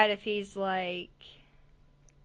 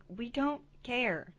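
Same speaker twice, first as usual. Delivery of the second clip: unimpressed friends; 2 semitones higher, 5 dB quieter, slower than usual. Retold or imitated. Voicing friends tired of her countdown.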